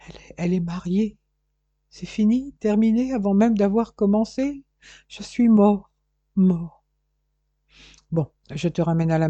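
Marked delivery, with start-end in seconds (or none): 0.1-1.2 halting, repeating the words in shock; dazed stammer with a rising end; stunned stammer. Acted. Jason stunned by the news. 1.9-6.8 high, louder cry of heartbreak; young man's dramatic despair, pitched up. Acted. Jason heartbroken over married woman.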